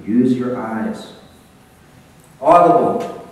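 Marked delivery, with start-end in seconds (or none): 2.4-3.3 sudden loud yelled word; a startling shout to wake up the audience; yelled demo. Shown as a demonstration. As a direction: bark it out to startle the room. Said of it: "I scared you when I yelled".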